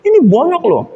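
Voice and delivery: high, shrill-free mock scolding of her husband; imitating a wife fussing over the dented car; wife complaining to husband about the wrecked car; angry wife. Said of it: "Istrinya marah-marah".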